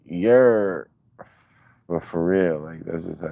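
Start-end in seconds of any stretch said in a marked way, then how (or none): 0.1-0.9 mock Australian yeah. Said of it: "It's like".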